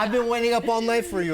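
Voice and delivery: put-on Latina accent. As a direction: scold a partner in a hammed-up Latina accent. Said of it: "yell at me in your Latina accent".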